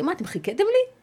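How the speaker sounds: as if she can't believe they waited; amazed question. Retold or imitated. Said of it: "אמרתי". (שאלה מופתעת בקול גבוה)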